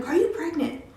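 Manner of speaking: high, loud frantic questioning; mother screaming at her teenage daughter; mom screaming. Retold or imitated. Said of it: "And she's screaming".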